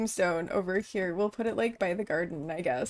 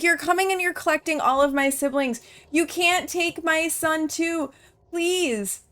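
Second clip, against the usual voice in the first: hammed-up begging, higher toward the end; pleading mother; 4 semitones higher than usual. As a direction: mock-desperate plea for a child. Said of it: "plead with Grim".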